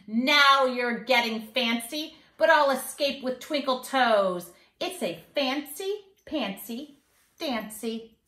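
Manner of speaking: put-on sing-song rhyme for kids; mischievous leprechaun. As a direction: read it like a cheeky little leprechaun bragging. Leprechaun boasts, reading on.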